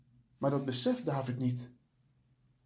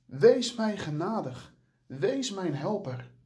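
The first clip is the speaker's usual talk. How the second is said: slow, higher, lightly voiced plea; pleading cry; 4 semitones higher, slower than usual. Feverish David calling out to God, mild pleading. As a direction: beg God for help, gently and slow. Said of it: "met de koorts in zijn lijf roept hij tot God".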